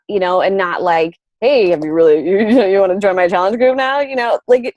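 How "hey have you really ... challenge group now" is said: pushy sales pitch. Retold or imitated. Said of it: "not like that".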